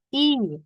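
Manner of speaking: "I" held as a long ee. Shown as a demonstration. Teacher demonstrating I E, lengthened ee vowel. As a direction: stretch the vowel "I". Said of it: "I-nya panjang".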